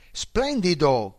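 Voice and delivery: shouted joy at the speed; gleeful shout from the passenger seat; excited shout. A narrator's reading. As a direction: yell it out thrilled, stretched slow. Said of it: "gridò".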